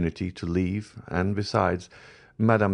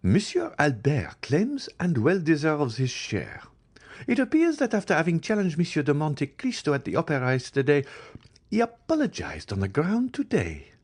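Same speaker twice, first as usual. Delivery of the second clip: put-on higher, slowed, scornful young woman; voiced Eugénie; 10 semitones higher than usual. A narrator's reading. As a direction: lay the blame on Albert with scorn. Eugénie condemns Albert.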